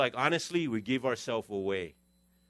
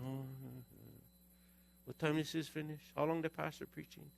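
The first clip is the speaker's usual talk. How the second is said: half-hearted churchgoer. Retold or imitated. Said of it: "half-hearted".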